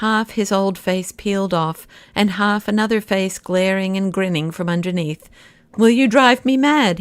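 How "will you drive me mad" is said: loud, high, desperate outburst; a cornered man crying out in despair. A narrator's reading. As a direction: cry out at the end of his rope. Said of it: "he cried".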